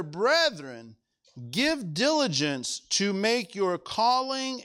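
slow, measured reading of the verse; solemn scripture reading. Acted. Preacher reading the promise to the church, slow and measured. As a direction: lay each phrase down slowly.

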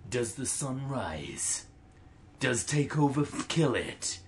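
slow, hushed movie trailer read; dramatic trailer narrator, drawn out. Shown as a demonstration. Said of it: "I'm gonna read this like a trailer voice".

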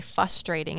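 frustrating said as "fustrating", without the first R; R dropped from frustrating. Retold or imitated. Quoting Bradley mimicking her, frustrating without its first R. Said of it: "You say frustrating".

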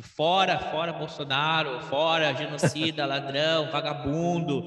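muted mock crowd chant; imitated crowd shouting. Commentator recounting a video of park visitors heckling, imitated shouting. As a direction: mimic a yelling crowd without real volume. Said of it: "E todo mundo gritando".

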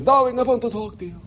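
put-on high, raspy European old lady; European raspy aunt. Old aunt beckoning her nephew over, European raspy voice. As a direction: call over in a little accented rasp. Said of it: "her little, uh, European raspy voice".

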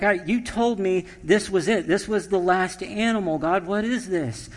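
mock confusion at the extra animal; perplexed. Adam asks God why another animal came. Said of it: "he's like".

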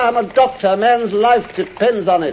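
high, loud urgent calls to the driver; urgent shout. Acted. Doctor shouting at the cabbie to hurry, loud and urgent. Watson urging the cab driver.

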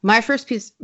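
tongue slips on the word; stumbling, uncooperative mouth; mouth not working. Real, not acted. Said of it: "my mouth doesn't work today".

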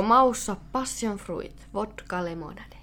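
slow, drawn-out ASMR read of the can label; playful slow ASMR reading; mock ASMR. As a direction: savour each word like an ASMR clip. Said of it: "tölkkiavaus A S M R".

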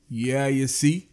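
slow, stretched Bahamian accent. Shown as a demonstration. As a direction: draw it out in Bahamian dialect. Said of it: "I must say this like this".

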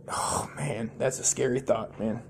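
breathy hushed oh man; awed whisper. Real, not acted. To viewers, imagining having no kids, a hushed whisper. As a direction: whisper it at the scary thought.

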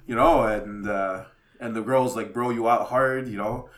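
ordinary delivery

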